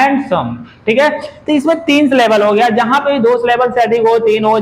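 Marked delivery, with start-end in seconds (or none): 0.0-0.6 हैंडसम broken up, हैं-ड-सम; syllable by syllable. Shown as a demonstration. Teacher repeats syllables for the class, हैंडसम pulled apart. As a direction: sound out हैंडसम in separate beats. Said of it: "ऐसे तीन syllable में बोला जा रहा है".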